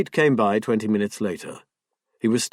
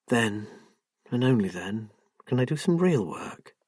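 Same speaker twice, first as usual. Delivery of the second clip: tearful. Acted. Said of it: "He realized that she was crying".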